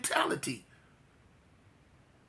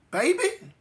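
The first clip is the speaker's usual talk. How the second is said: put-on high, wavering "Baby?" on the phone; tearful aunt; 13 semitones higher than usual. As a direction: call him gently, near tears.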